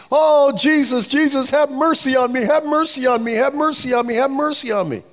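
high, urgent acted plea, repeated without a break; crying out. Preacher as blind Bartimaeus calling to Jesus, acted crying out. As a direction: cry out like a beggar for mercy. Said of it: "he just cries out to Jesus".

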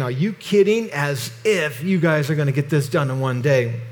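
mocking. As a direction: sneer at their hopeless plan. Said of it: "Again, mocking them".

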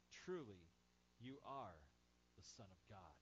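low, soft reverent words; hushed reverence; awed worship. Retold or imitated. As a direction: breathe it in awe.

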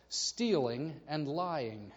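"stealing and lying" said very slowly, each word apart; slow weighed list; slow, deliberate listing. Shown as a demonstration. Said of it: "Lying and stealing".

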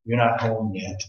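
low, hushed divine reply; soft retold whisper. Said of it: "he heard the Lord whisper to him".

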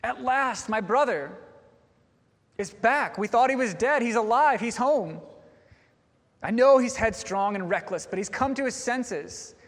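imagine the overjoyed son; mock excited son. Brother rejoicing at the news, excited. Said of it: "Is he excited?".

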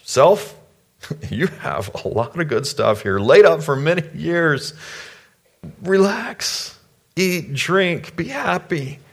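high-pitched, playful self-talk; hammed-up contented rich man; self-satisfied farmer. Farmer congratulating himself in parable.

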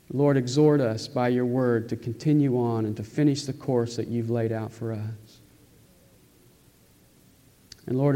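earnest, measured public prayer; closing prayer. Real, not acted. Pastor closing the sermon in prayer for the congregation, earnest and measured. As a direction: pray sincerely, with pauses between petitions.

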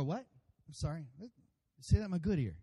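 lightly acted hard-of-hearing listener; puzzled asking, as if you missed it.

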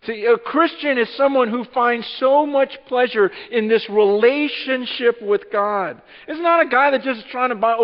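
loud, high preaching voice, driving hard; full-force preaching. Acted. Preacher to congregation, loud full-force preaching.

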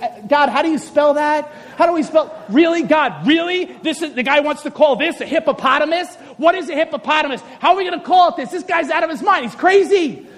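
hammed-up baffled protest; exasperated angel. Angel scribe complaining to God about Adam, exasperated. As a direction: question it with mounting mock exasperation. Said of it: "he's writing all this down. And he's like".

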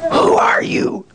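breathless high whisper; scarcely above a whisper. A narrator's reading. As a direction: whisper it in fear. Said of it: "scarcely above a whisper".

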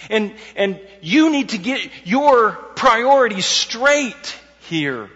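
loud, slow, emphatic scolding; sharp rebuke. Retold or imitated. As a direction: drive it home, high and forceful. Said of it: "So it's a sharp rebuke".

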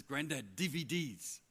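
lightly imitated small boy's exclamation; excited little grandson. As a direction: mimic a little boy's sing-out of DVDs. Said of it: "He says it like that".

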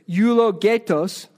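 Greek word in a Spanish accent; Spanish-accented eulogetos. Real, not acted. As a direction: say eulogetos with Spanish-sounding vowels. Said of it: "I say it with a Spanish accent".

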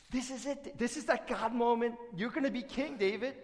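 high-pitched, eager egging-on; excited urging. Acted. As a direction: urge him on as if the big moment has come. Men urge David to act.

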